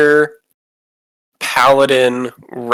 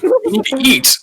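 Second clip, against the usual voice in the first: skeleton farmer voice; 12 semitones higher than usual. Acted. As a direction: play the odd farmer.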